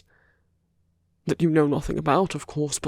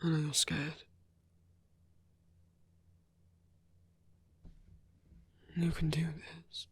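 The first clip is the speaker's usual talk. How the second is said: quiet, soothing encouragement; gentle reassurance; 9 dB quieter than usual. Acted. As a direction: gently coax someone who is scared. Reassuring a frightened listener.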